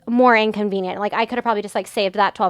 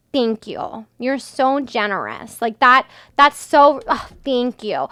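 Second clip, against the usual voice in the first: sarcastic; slower than usual. Real, not acted. Sarcasm at sixty dollars off.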